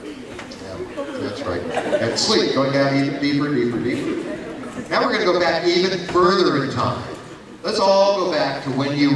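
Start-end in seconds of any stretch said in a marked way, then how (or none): 1.6-6.7 hypnotist voice. Acted. Hypnotist induction.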